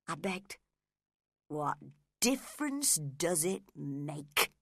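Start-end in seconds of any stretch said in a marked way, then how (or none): 1.5-4.5 growled. Acted. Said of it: "he growled".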